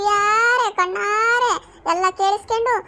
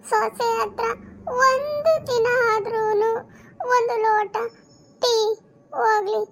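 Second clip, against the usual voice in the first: tearful lament; slower than usual. Acted. Wife weeps over in-laws.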